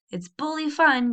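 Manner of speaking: high, slow eager yell. A narrator's reading. Warren yells to cousin Annabel, high and eager. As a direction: Warren shouts it out with glee. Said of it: "yelled Warren".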